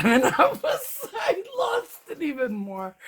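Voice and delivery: losing it completely; laughing. Real, not acted. Cracking up while retelling.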